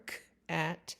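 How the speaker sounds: k-at with the k sound pulled apart; stretched out. Shown as a demonstration. Parent stretching a word out for a child. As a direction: stretch cat into k and at. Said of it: "stretch it out for 'em".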